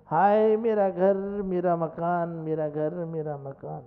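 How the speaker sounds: mock wailing. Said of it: "चिल्ला रहे हैं".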